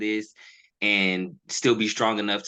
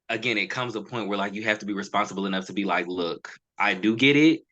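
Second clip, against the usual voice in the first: halting, stumbling over words; stuttering. Real, not acted. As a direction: trip over the words a little. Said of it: "I'm kinda stuttering a little bit".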